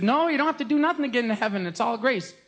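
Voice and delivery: high, emphatic declaration; mock Martin Luther. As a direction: proclaim grace with cheeky certainty. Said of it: "and he said".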